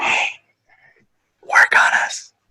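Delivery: whispering.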